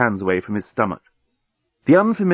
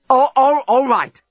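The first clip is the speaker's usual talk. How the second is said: startled; 14 semitones higher, 5 dB louder, slower than usual. A narrator's reading. Being shaken.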